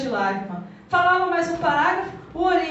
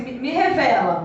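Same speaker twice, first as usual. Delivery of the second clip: oração lenta; 5 semitones lower than usual. Shown as a demonstration. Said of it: "Fala o seu nome assim".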